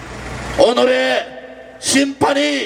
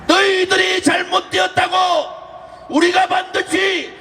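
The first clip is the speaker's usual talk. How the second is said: shouting; 4 semitones higher than usual. Real, not acted. Rally speech, rousing crowd.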